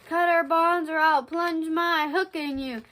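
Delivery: amateur stage pirate threat; threatening pirate captain. Acted. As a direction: order the crew about, stagily. Hook's threat in a play.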